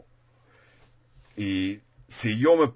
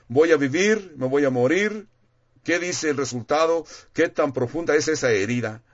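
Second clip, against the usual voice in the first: anxious patient; 5 semitones higher than usual. Retold or imitated. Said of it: "como si hablasen con su, un doctor".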